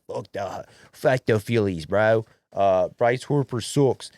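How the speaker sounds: high-pitched hammed-up Philadelphia fan accent; Philly accent. Podcast host voicing a fed-up Phillies fan, Philly accent. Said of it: "The accent's pretty good".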